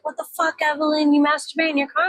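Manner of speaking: mock shocked people. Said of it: "A lot of people are like".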